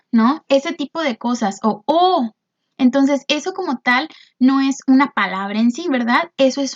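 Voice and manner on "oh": surprised oh. Shown as a demonstration. Teacher demonstrates the interjection oh, mock surprise. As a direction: sound caught off guard. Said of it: "esos sonidos que hacemos para expresar una emoción".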